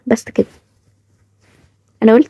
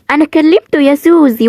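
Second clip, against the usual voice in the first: mock quote; 5 semitones higher than usual. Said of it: "وقال إيه؟".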